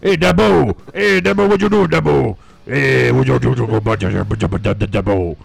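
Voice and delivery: lightly voiced redneck coach; a hint of a hollering Southern coach; Waterboy coach voice. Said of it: "he sounds like the coach from Waterboy".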